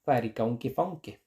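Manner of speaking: "Farikaunki faunki" con "au" ante "nk"; pronunciación islandesa. Shown as a demonstration. ("Farikaunki faunki" con au islandés)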